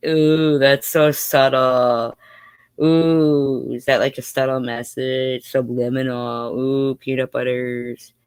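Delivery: slow, mocking sarcastic ooh. Real, not acted. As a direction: drawl it out, full of sarcasm. Mocking a subtle channel message.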